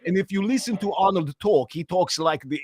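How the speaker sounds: understated Austrian lilt; everyday Austrian English; Austrian accent. Shown as a demonstration. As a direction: explain it in a natural Austrian accent. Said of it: "so his Austrian accent".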